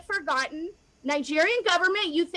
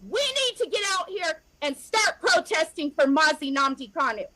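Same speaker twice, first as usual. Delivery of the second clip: pleading as the tears come; near tears. Real, not acted. Rallying supporters to protest, voice breaking with tears. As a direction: voice catching with real tears. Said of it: "I'm emotional about this".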